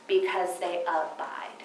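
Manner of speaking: slow, soft whisper to land the point; whispered emphasis. Real, not acted. Telling the seminar crowd that seated people abide, in a slow whisper. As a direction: drop to a whisper on the key word. Quiet punchline of teaching point.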